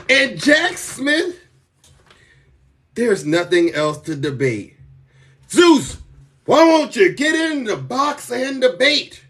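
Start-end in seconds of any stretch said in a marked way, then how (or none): 5.5-9.2 mock critic taunt. Voicing critics' challenge.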